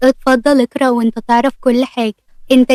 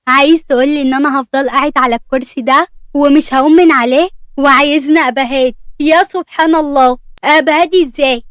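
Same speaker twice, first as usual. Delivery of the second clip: angry protest; 2 semitones higher than usual. Acted. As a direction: push back at the doctor, frustrated. Patient protests to his doctor. (احتجاج غاضب بصوت مرتفع)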